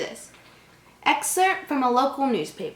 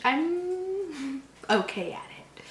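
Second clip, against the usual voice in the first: laughing; 5 semitones higher, 5 dB quieter, much slower than usual. Real, not acted. Laughing aside about her English.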